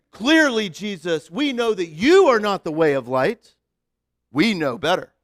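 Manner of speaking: preacher voicing the Pharisees, lightly deepened; deep Pharisee voice. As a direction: lecture Jesus in a mild deep voice. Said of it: "we'll give them the deep voice".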